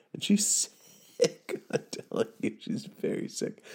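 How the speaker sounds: hushed aside, half whispered. Real, not acted. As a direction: lean in and whisper it. Whispered aside about sick wife.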